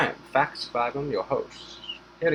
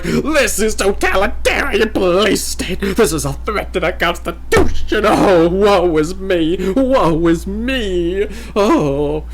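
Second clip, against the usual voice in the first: whiny Southern complainer; 9 semitones higher, 10 dB louder, much slower than usual. Retold or imitated. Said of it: "the Southern boys were like".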